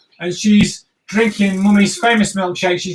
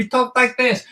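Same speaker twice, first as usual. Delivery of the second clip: Mike Tyson; 3 semitones higher than usual. Retold or imitated. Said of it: "He doesn't talk the way he looks".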